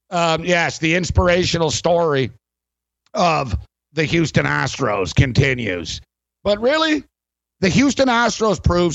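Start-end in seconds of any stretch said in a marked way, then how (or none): 0.1-6.0 sarcastic. Real, not acted. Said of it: "I say this sarcastically".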